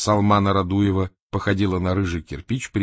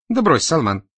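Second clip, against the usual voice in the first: raised, louder placating voice; conciliatory; 7 semitones higher, 6 dB louder than usual. A narrator's reading. Berezovsky calming his irritated opponent, conciliatory. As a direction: brush it off to make peace. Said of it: "примирительно сказал Березовский".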